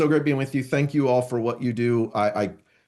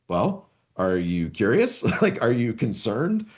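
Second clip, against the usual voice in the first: checking intention. Acted. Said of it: "that's gonna drastically dictate how I answer".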